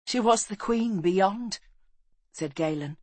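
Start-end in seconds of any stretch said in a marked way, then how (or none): 0.1-1.6 high, slow youngster; high young voice; young boy's voice. A narrator's reading. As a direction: pitch it up, drawn out, like a grieving boy. Grieving boy speaks of dead queen.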